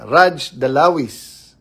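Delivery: high, loud and slow announcing of a viewer; slow loud name call. Real, not acted. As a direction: announce the viewer like calling them up. (mabagal at malakas na pagtawag sa pangalan)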